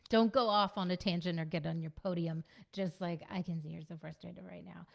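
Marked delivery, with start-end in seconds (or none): 3.3-4.9 softer, simple calm naming; gentle acknowledgment. Shown as a demonstration. Parent acknowledging an upset child, soft and simple. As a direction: keep it short and soft. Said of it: "Keep it simple".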